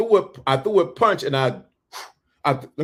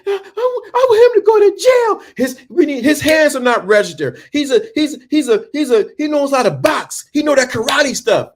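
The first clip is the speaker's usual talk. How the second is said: the mother pushing for jail; instigating mother; 10 semitones higher than usual. Retold or imitated. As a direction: stir the trouble like an outraged mom. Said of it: "So she's instigating".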